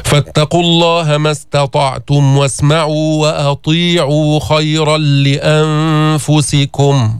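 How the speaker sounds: slow chanted Quran recitation. Shown as a demonstration. Teacher recites the verse for the class. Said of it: "يعني إدغام كامل".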